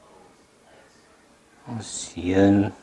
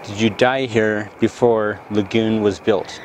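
talking to a ghost. Acted. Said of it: "do an E V P session".

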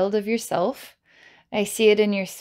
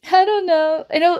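much higher, louder squeak; funny helium voice; 9 semitones higher, 5 dB louder than usual. Pretend. The shy child answers on helium, squeaky funny voice. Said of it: "And you say it with a funny voice".

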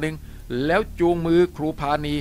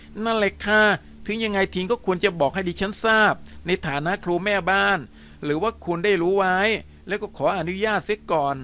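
flustered female teacher; 3 semitones higher than usual. Acted. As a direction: complain breathlessly to the headmaster. Teacher voiced in story. (ครูสาวเสียงสูงตื่นตระหนก)

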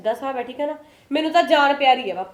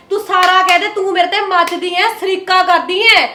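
louder, heated accusing; raised voice in a family fight; angry accusation; 2 semitones higher, 5 dB louder than usual. Acted. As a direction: jab at her jealousy. Quarrel with sister-in-law.

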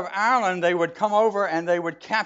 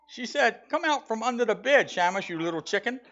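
bad Irish accent; 5 semitones higher than usual. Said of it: "to learn a bad Irish accent".

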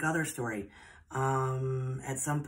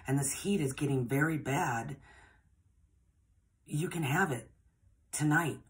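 a hint of the boss's voice, set higher; boss insisting; 3 semitones higher than usual. Boss refuses payment and offers the gift, lightly voiced higher.

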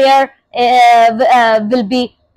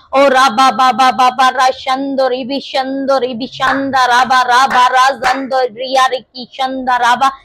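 speaking in tongues. Real, not acted. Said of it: "when you pray in the spirit of tongues".

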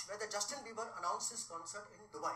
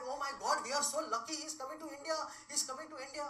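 mock squealing daughters; 4 semitones higher than usual. Daughters going mad over a singer.

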